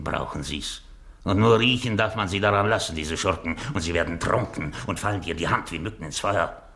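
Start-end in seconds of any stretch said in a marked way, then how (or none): 1.2-3.0 louder, faster, driving the point; emphatic gloating. Acted. Master scolding his foolish servant, emphatic. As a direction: hammer the lesson home.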